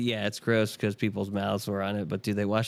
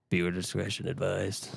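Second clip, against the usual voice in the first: soft, understated warning read; quietly voiced disclaimer, a touch eerie; creepy announcer demo; 3 semitones lower, 6 dB quieter than usual. Shown as a demonstration. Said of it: "You just gotta say".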